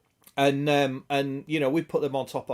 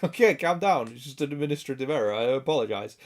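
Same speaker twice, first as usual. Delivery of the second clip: placating phone clerk; faster than usual. Retold or imitated. Acting the phone guy calming an angry caller, mildly placating. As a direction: hurry through a mild soothing apology. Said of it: "the guy at the phone was just like".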